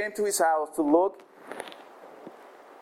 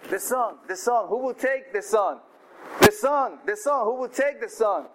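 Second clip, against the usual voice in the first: God calling; 4 semitones higher than usual. Acted. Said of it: "God said".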